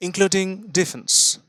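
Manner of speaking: "including defense" drawn out, then stop; pause after defense. Shown as a demonstration. Teacher shows students the pause after defense. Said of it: "তারপর থেমে বলছি".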